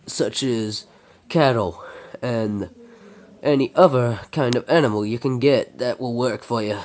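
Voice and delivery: lightly put-on Texas accent. Sam tells of farm and family, in an amateur Texas accent. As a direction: narrate as a Texan, not very convincingly. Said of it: "doing a Texas accent as much as he can".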